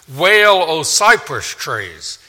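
sudden loud cry then slow; loud call to wail. Acted. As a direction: proclaim it like a prophet's lament. Preacher voicing God's lament call.

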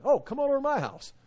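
hammed-up friendly neighbour voice; mock cheerful host.

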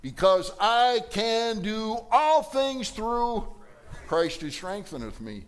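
high, slow, stretched proclamation; rousing declaration. Pretend. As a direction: lift the crowd with faith. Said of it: "It's like".

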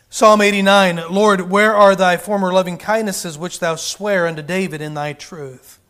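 loud preached Bible reading; declaiming old King James lines; scripture reading. Acted. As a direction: proclaim the verse to the hall. Reads scripture aloud.

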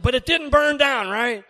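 pointed question. Retold or imitated. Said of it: "He said".

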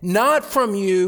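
"Not" hit hard, slow; slow stressed contrast; emphatic not. Shown as a demonstration. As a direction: punch the word Not. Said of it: "He's emphasizing where the gift came from".

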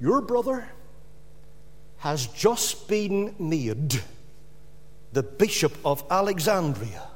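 soft, slow storyteller's whisper, still voiced; retold whisper. Devil tempting the hermit with news of his brother, mock whisper. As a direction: drop the volume, as if into someone's ear. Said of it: "he whispered in his ear".

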